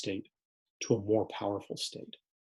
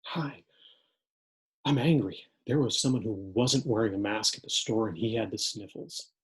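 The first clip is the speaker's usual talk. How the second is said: angry student; 3 dB louder than usual. Acted. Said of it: "Scenario four".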